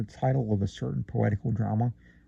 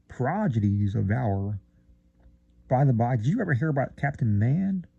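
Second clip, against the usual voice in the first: drawling. Acted. Friend Theodore gossiping, mildly drawling. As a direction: stretch the syllables out a touch. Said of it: "drawling out syllables".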